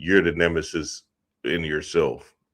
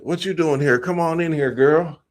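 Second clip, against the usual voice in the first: put-on pitched-up, welcoming ex-boyfriend; playing the smooth ex; 10 semitones higher than usual. Ex welcoming the wife at his door, high and smooth. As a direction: invite her in all smooth and surprised. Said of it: "he said".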